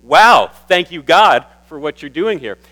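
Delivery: wow, carried high and loud; awed thanks. Retold or imitated. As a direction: gasp it out to God in awe. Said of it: "I just can't help but say".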